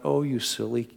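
slow, affectionate scolding; tender, as to a child. Shown as a demonstration. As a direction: tease a child softly. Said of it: "like we might say to a child".

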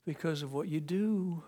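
gentle father. Retold or imitated. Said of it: "the father said".

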